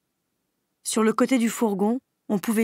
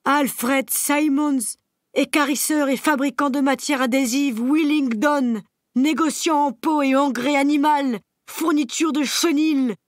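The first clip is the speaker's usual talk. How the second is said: slow, higher, louder reading of the sign; 6 semitones higher, 4 dB louder than usual. Acted. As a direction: read each word out in alarm. (âne qui lit l'enseigne à voix haute, alarmé)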